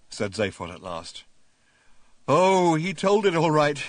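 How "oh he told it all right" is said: loud, slow and fierce; savage. A narrator's reading. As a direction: spit it out savagely. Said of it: "said the man savagely".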